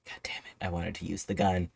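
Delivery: whispered grumble. Retold or imitated. Butler whispering his disappointment about the unused gun. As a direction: breathe it out with no voice, disappointed.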